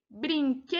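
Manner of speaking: "brinquedos" with que stretched long; stress on QUE. Shown as a demonstration. Teacher reading option D to pupils, "brinquedos" with a long stressed que. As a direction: draw out the middle syllable of "brinquedos". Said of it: "a penúltima sílaba é a sílaba tônica".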